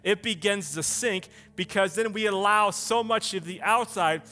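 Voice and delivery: forceful, emphatic sermon delivery; driven preaching. Acted. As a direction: preach it hard, hitting the key words.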